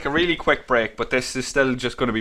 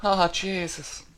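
laughing; 6 semitones higher, 7 dB louder than usual. Acted. Joking about holy bread.

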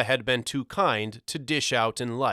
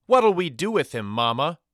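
put-on high, loud question from a boy; raised, urgent boyish voice; boy asking mother; 5 semitones higher, 5 dB louder than usual. A narrator's reading. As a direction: call out to your mother for a decision. Walter calls to Mama, holding goblin.

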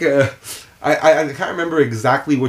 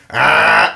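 imitated doctor's "ah"; 5 dB louder than usual. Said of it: "he goes".

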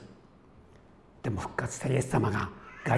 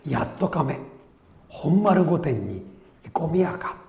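reading a Nagoya-dialect karuta card, slow and a bit louder; 3 semitones higher, 4 dB louder, slower than usual. Retold or imitated. 名古屋弁で読み上げる. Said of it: "名古屋弁で".

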